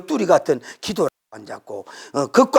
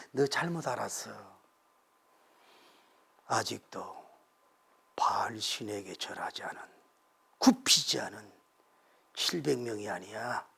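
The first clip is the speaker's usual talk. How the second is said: soft, quiet correction; God quietly correcting Elijah; gently; 9 semitones lower, 13 dB quieter than usual. A narrator's reading. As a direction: explain it softly like a patient father. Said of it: "부드럽게 얘기해요".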